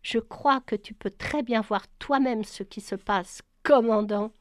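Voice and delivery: a touch of biting exasperation; understated sarcasm aimed at the commander; mild exasperation. Acted. Paola answering Brian, mildly exasperated and biting. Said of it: "La voix exaspérée de Paola mordait comme du vitriol".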